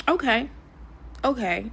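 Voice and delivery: high-pitched acted "okay"; mock acceptance. Acting out resigned future reaction to setback.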